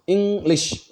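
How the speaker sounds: "इंग्लिश" with both parts stressed; both syllables stressed. Shown as a demonstration. Teacher showing students two stressed parts, both halves of "इंग्लिश" stressed. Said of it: "दोनों part पे मैं जोर दे रहा हूँ".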